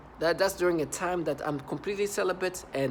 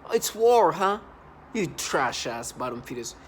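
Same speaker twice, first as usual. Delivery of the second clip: angry taunt; 4 dB louder, slower than usual. Real, not acted. Angry taunt at his tormentors.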